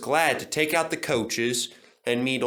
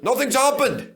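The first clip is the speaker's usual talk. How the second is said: higher, louder gleeful crow; louder chortle; 12 semitones higher, 6 dB louder than usual. A narrator's reading. Duncan gloating, louder chortle. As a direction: crow it even harder. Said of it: "he chortled".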